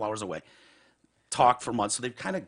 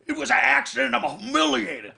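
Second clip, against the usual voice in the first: high, loud mock plea of shame; ashamed friend; 12 semitones higher, 5 dB louder than usual. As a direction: wail it like a caught kid. E pleading again.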